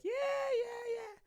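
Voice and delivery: high yell into a hammed-up American accent; mock American neighbour. Neighbour calling over the delivery driver, mock American accent. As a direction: call out in a badly faked American accent. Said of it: "your neighbor be like".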